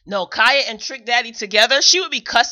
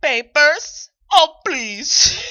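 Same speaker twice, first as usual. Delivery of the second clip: laughing mock scoff; 4 semitones higher, 5 dB louder, much slower than usual. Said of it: "mother's scoff retold again".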